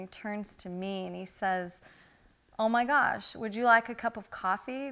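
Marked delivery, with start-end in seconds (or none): 2.6-4.9 a higher, louder, mildly surprised offer; lightly voicing a stranger's surprised offer. Stranger with two cups turning to her, higher, louder and mildly surprised.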